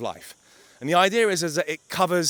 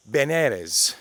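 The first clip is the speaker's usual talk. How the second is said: normal talking voice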